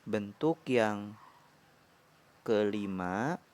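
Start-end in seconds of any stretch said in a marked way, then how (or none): none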